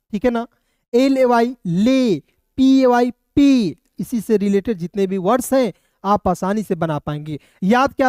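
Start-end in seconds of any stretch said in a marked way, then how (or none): 0.9-3.8 slow spelled letters, then ले and पे said as lei and pei; slow spelling demo. Shown as a demonstration. Teacher drilling ay words with the class, slow and clear. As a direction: spell each slowly and land on ले, पे. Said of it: "एवाई का उच्चारण ए".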